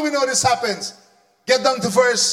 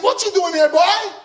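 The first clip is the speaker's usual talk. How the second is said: high, scornful call; lightly voiced sneering brother; condescending challenge; 6 semitones higher than usual. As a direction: talk down to the boy. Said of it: "Elijah is saying".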